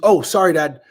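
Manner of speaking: a hint of the caught-out kid; imitated sheepish daughter. Daughter caught swearing by dad, mock sheepish apology.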